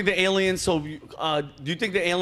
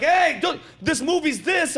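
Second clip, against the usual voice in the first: high mocking voice of the officials; high-pitched mocking brush-off; 6 semitones higher, slower than usual. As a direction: sneer it like a dismissive official.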